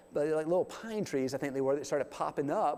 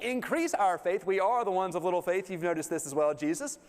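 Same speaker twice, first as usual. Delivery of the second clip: pleading disciples; 4 semitones higher than usual. Retold or imitated. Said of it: "they're like".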